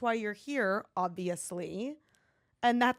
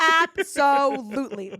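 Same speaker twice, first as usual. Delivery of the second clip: emphatic agreement; 3 semitones higher, 9 dB louder, slower than usual. Real, not acted. Enthusiastic agreement.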